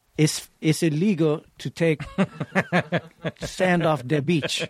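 inaccurate, unconvincing put-on Cuban woman's accent. Retelling what a half-Cuban woman from Miami said, as an inaccurate imitation of a Cuban woman. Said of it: "this isn't an accurate portrayal".

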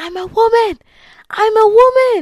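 very high, loud, drawn-out, awed, triumphant scream. Speaker retells screaming in awe after finishing a level: retelling a scream. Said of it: "I kept screaming".

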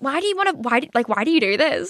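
put-on exasperated, annoyed, stumbling delivery. Retelling the boyfriend's reaction to phone use during a movie: imitating annoyed boyfriend. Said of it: "My boyfriend gets so fucking annoyed at me".

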